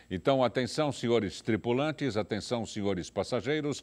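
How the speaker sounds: lightly voiced pilot announcement; mock cabin announcement; pilot cockpit headset. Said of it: "Aqui é o comandante Arruda".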